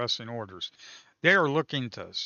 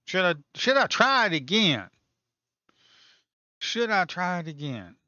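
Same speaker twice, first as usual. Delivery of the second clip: 1 eager question; 5 semitones higher, 7 dB louder than usual. Real, not acted. Eager, louder question to viewers.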